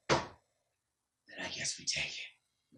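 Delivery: slow, whispered threat from the bear; menacing whisper. Acted. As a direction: breathe it out coldly, no voice.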